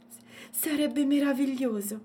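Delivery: high, wondering exclamation; exclaiming. A narrator's reading. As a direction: gasp at something marvellous. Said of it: "esclamò Matilde". (esclamazione incantata)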